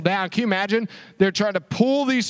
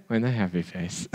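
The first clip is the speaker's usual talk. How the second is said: put-on With a happy face. muttered lower and softer by a sulky kid; grudging reply; 11 semitones lower, 6 dB quieter than usual. Shown as a demonstration. Kid answering a parent, sulky and quiet.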